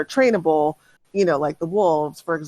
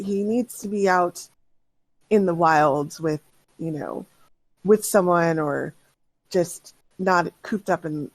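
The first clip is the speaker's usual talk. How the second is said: a touch sad; 4 semitones lower than usual. Acted. Simic speaking, a touch sad.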